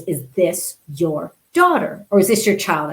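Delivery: slow, clipped-off questioning, mildly imitated; a hint of a stern guard grilling her; curt official. Security agent questioning the mother, mildly curt. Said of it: "quite curt with me".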